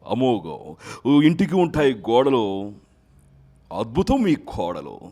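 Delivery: a loud, hearty film-hero voice; a hint of a loud, punchy star plugging vegetables; star hero impression. Mimicry artist recreates a film-star voice for the interviewer, loud and punchy.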